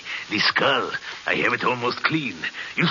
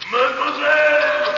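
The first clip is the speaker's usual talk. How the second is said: distant calling out; 5 dB louder than usual. Acted. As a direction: sing it out after someone. Madman calling after fleeing captive.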